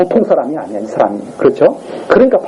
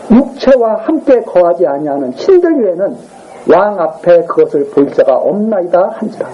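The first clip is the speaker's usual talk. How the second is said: scripture reading. Acted. Reads scripture aloud. (느리고 엄숙한 성경 낭독)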